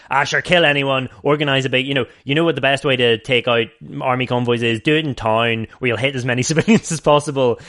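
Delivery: mock a casual Dublin hard man's accent; thick Dublin accent. Podcaster caricaturing the film's gung-ho rebels, in a Dublin accent. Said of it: "the thick Dublin accent people, they're all just like".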